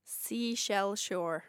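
slow, careful American accent. Shown as a demonstration. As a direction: draw it out in an imitated American accent. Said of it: "I will say it in American".

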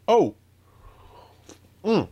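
a swallow then a pleased hum; sip and swallow. Real, not acted. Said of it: "I'm gonna have a sip of coffee".

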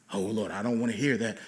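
low, grumbling reluctance; mock complaint. Preacher mimics a believer resisting God. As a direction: whine it like you don't want to hear.

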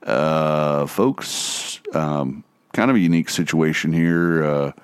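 lightly voiced laid-back airline captain; a hint of a drawling cockpit announcement; pilot voice. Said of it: "Bob up front would have been like".

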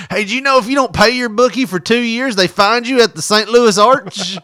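hammed-up fan greeting; mock cameo shoutout. Podcast host mocking a paid celebrity cameo, lightly voiced. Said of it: "He's doing the cameo".

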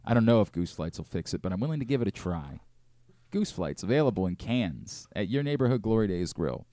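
sponsor read. Acted. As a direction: read the beer ad. Reads beer sponsor ad.

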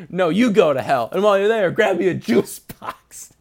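imitating Will Ferrell yelling back; mock comeback yell. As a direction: fire it back at the coach. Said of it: "And then Will Ferrell says".

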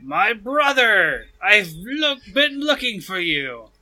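lightly voiced, slow and eager brother; a hint of a long-lost brother; a halfling greeting his brother with mild delight; mock joyful greeting. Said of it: "the halfling says".

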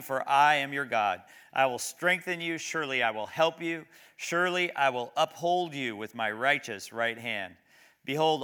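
firm declaring reading; scripture reading. Acted. Preacher reading God's promises to the church, firm and declaring. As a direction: proclaim God's promises with conviction. Reads God's words in Isaiah.

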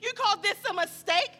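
hurt, indignant scolding; jilted outrage. Acted. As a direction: demand answers from a cheating husband. Wife confronts cheating husband.

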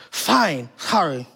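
low, flat mumbled sorry; grudging sulky sorry. Retold or imitated. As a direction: give it up like a sulking teen. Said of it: "They're so dramatic".

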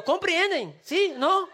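high, loud little questions; mock hopeful checking. Preacher re-enacting himself asking a blank congregation, mock hopeful high questions. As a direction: pipe up, anxiously checking they follow.

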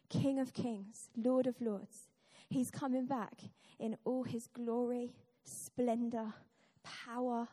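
rising, fervent preaching. Acted. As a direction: proclaim it with conviction. Preaches with fervour.

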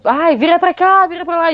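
a worker half-yelling at the crowd to steer the truck; retold yelling. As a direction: call out directions over the noise. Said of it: "um gritando".

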